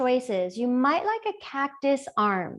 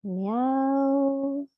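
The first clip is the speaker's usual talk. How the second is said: light playful meow; a quick cat mew; 3 semitones higher than usual. Shown as a demonstration. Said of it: "representing over there".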